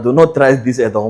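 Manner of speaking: each word slow and spaced out, like a stern caution; slow warning. Acted. Speaker warns listeners not to copy his exam trick, slow and deliberate. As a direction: lay it down slowly so they take it seriously.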